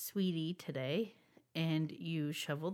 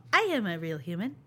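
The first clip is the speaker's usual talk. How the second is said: fast stiff robot voice; robot faking human; 5 dB louder, faster than usual. Pretend. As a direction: recite it like a machine pretending to be a person. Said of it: "if a robot will be the same".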